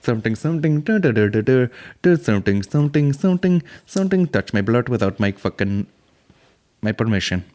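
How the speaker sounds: bouncing nonsense in a put-on Indian accent; mock Indian accent. Parody of the interviewed woman, mock Indian accent. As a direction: babble in a caricatured Indian lilt. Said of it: "this woman's talking".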